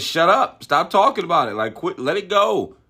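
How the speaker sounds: blunt quote. Retold or imitated. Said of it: "Told Jimmy Kimmel straight to his face".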